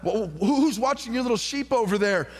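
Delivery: lightly voiced scornful big brother; mocking older brother. Eliab scolding young David, light mock scorn. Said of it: "David's own brother says".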